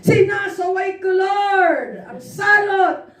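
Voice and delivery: forceful rebuke. Retold or imitated. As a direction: rebuke the plague in prayer. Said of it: "Ang lakas ng pagkasaway".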